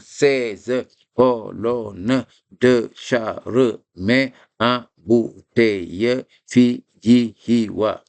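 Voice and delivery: slow, each syllable set apart; slow syllable-by-syllable recital; syllables separated. Shown as a demonstration. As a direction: spell the formula out by syllable. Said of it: "on sépare les syllabes".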